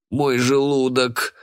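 slow, strained groan of pain. A narrator's reading. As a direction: clutch a sick stomach. Boy vomiting, groaning. (Макс стонет от тошноты)

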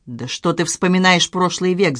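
ordinary delivery

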